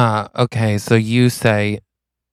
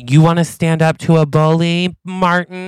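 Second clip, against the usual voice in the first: mock taunt; 6 semitones higher than usual. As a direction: square up to him jokingly. Improv character taunts Martin.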